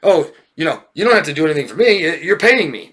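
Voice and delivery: mock therapist brushing off a friend. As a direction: breeze through it like a hired listener. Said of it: "You act like a therapist".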